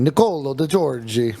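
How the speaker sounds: put-on hammy Italian accent on the name; terrible Italian accent. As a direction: say the name like a bad Italian impression. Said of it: "that's my terrible Italian accent".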